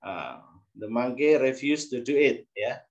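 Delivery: usual speaking voice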